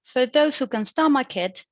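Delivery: "those" lifted, fall at the end; phrase read out as a tone unit. Shown as a demonstration. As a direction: stress on those, falling at "stomach". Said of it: "is the first one".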